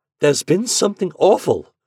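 very high, loud, sudden desperate blurted outburst. A man, long speechless, finally answers a woman, bursting out. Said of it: "he burst out finally".

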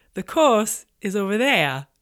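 bad put-on New Zealand accent. Speaker retells what a woman on the water told them, in a terrible Kiwi accent. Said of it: "That's my terrible Kiwi accent".

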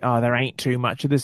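put-on broad Australian accent. Discussing Joe conning Sonny, quoting Joe in a put-on Aussie accent. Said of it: "I put on a really Aussie accent".

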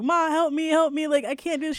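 high, tearful, crying, panicked voice. Recalling begging their mom for help at the last minute, retelling crying and freaking out. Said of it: "I'm sitting there crying and whatnot, and I'm freaking out".

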